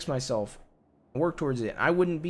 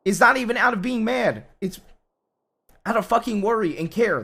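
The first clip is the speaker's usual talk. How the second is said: louder and higher, fraught with worry; real yelling; 4 semitones higher, 5 dB louder than usual. Real, not acted. Husband yells at his wife that he's worried, loudly. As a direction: shout it out of care. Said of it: "Stop yelling".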